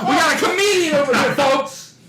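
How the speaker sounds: loud, high showman call with a laugh; mock announcer. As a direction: play it like a comedy club host.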